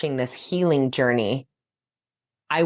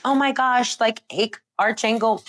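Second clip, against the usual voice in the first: high, breathy-free fangirl gush over an angel; mock gushing believer; 7 semitones higher than usual. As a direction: gush like a starstruck fan. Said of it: "This isn't like".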